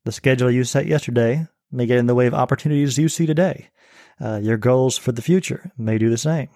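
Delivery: put-on reading his essay aloud in a light English accent; a touch of a British reading voice. Guest reads his essay to the host in a light English accent. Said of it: "I could read it in English accent".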